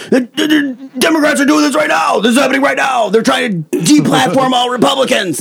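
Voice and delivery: hammed-up imitation of a screaming Alex Jones; mock screaming. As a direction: shriek it like a frantic conspiracy ranter. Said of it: "he was screaming about deplatforming".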